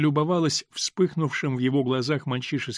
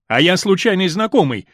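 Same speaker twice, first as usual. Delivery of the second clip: angry interruption; 4 semitones higher, 7 dB louder than usual. A narrator's reading. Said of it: "гневно прервал он её".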